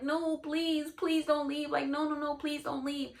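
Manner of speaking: mock crying plea. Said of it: "she's crying".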